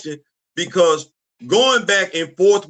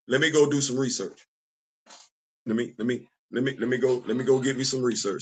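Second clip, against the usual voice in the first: low mock mumble; 6 semitones lower, 7 dB quieter than usual. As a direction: lower and softer, muttering to oneself. Imagined reply, muttered low.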